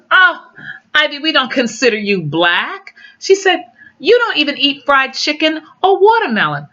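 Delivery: high, bright mock surprise; mock surprised coworker. Quoting coworker to Ivy, high mock surprise. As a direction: play the coworker, shocked she'd think otherwise. Coworker voiced in retold exchange.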